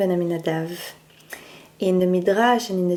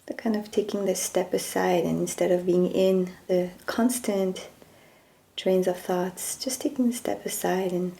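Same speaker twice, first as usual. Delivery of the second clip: guided meditation. Acted. Teacher guiding listeners to observe their thoughts, calm meditation voice. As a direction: gently ease listeners into stillness, leaving space after each phrase.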